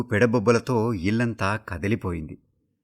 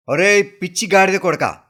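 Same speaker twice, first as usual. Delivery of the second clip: father's furious shout; 9 semitones higher, 8 dB louder than usual. A narrator's reading. Father catches son in sister's dress, furious roar. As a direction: roar the insult at full force, high and loud. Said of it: "అన్న తండ్రి అరుపుకి".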